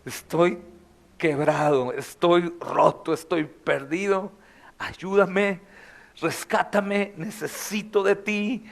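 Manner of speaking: soft, slow broken confession; slow, soft sinner's prayer; broken plea. Pretend. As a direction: pray it quietly, like someone at the end. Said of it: "podemos volver a Él con confianza".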